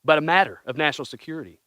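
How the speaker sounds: reading a Trump speech in a put-on presidential accent; hammed-up Trump impression, grand and earnest; mock Trump accent. Reading Trump's space speech to the guys, in mock Trump accent. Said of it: "Did he say it in that accent?".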